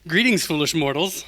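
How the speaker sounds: dark lord. Pretend. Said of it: "That's what I sound like".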